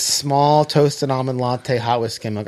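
drawn out at half speed; slow, insistent recital; deliberate repeat. Retold or imitated. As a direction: slowly spell out the order like a fixed script. Staring him down, repeats the order.

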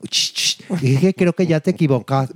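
mock tentative 'excuse me'; imitated attention-getting. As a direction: try to get an ignoring passenger's attention. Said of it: "no pelaba".

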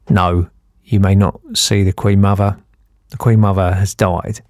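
imitated policeman. Policeman turns away the tipsy brother, low official voice. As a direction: refuse firmly as a mock British bobby. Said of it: "And the policeman said".

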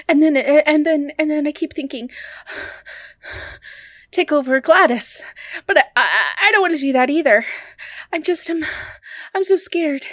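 a possessed patient losing control; changed scared voice. Acted. Patient confessing intrusive thoughts to JJ, frightened. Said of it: "Did your voice just change?".

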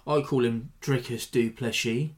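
put-on slow Sean Connery accent, "Plessis" with a slushy sh. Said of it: "Sorry, I went all Sean Connery there".

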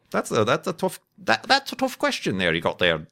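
lightly put-on British accent, half joking; a passing hint of a British gent, tongue in cheek. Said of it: "I don't know why I went British".

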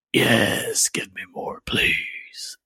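breathy, pleading whisper; awed whisper. Retold or imitated. Fan seeing the first six minutes, pleading whisper. Acted awed reaction to preview.

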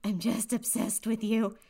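high cartoon voice, slowing to a confession; Mickey Mouse. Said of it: "he's like".

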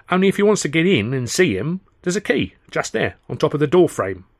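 put-on high cheeky street kid; street urchin voice. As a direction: tip him off like a scruffy kid. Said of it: "the urchin".

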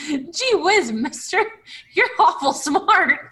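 put-on gee-whiz eager kid; wholesome 1950s kid. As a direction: innocent wide-eyed youngster. Naive kid talk to elf.

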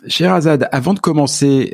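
cracking, rough morning voice. Real, not acted. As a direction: let the voice crack and catch. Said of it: "j'ai la voix qui déraille ce matin".

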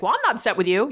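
mildly mock-defensive, a touch upset; upset denial. Other person answering the direct question, mildly mock upset. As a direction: imitate someone lightly protesting they aren't upset. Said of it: "usually in an upset tone".

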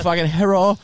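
mock Chinese accent. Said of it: "Do Chi-, do Chinese".

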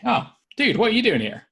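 high-pitched, friendly surprise; acted friendly bafflement, pitched well up; no longer hostile. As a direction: greet him like a puzzled mate. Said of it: "you're no longer, like, hostile towards this guy".

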